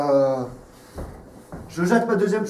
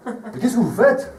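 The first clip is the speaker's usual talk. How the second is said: louder, higher, indignant repeat; 5 semitones higher, 3 dB louder than usual. Real, not acted. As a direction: demand it again, outraged.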